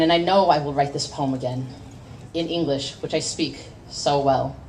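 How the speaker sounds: driving, rising slam-poem delivery; spoken-word poetry. Acted. Poet performs her slam poem about being Asian American, fierce spoken word. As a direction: perform it to the crowd, building heat.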